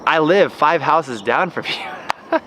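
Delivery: slow, breaking into a laugh at the end; laughing reveal. Retold or imitated. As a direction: let the laugh take over the last word. Amused reveal to the neighbor.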